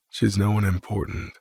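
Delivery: detached tone. Acted. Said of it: "Kane says in a detached tone".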